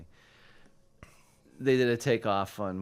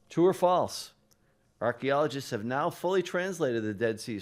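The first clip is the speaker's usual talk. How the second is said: game show host; 4 semitones higher, 5 dB louder than usual. Acted. Quiz host calls out question.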